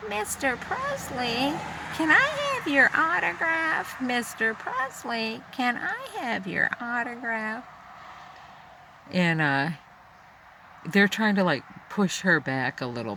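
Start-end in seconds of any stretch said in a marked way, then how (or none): 0.1-7.6 starstruck fan. Retold or imitated. Fan pleading with Presley for an autograph, high squealing. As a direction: gush it out like a giddy fan begging. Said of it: "she's holding up a notebook and she's going".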